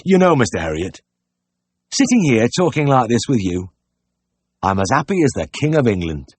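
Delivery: lightly voiced country pig-keeper, happy; a touch of heartfelt country delight; happy outburst. A narrator's reading. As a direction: share a sudden contentment, mildly animated. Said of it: "burst out".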